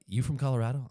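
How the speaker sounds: loud, high mock New Yorker; second try at a New York accent. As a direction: challenge them like a New Yorker. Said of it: "if I go to New York".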